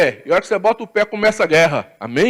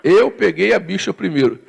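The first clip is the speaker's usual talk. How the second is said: mild mock argument. Preacher imitating the Muslim man arguing at the airport. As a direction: insist like a man arguing in line. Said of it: "esse muçulmano brigando com o português".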